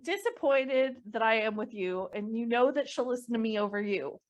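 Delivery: exasperated scolding with a touch of laughter; chastisement. Acted. Nick threatens to call the crowd's mothers, chastisement. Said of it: "I love that chastisement style".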